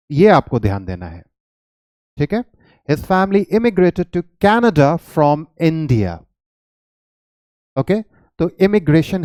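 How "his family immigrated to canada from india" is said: slow, careful example sentence. Shown as a demonstration. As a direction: read the example slowly, word by word. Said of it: "teacher reads example sentence slowly". (धीमा, साफ़ उदाहरण वाक्य)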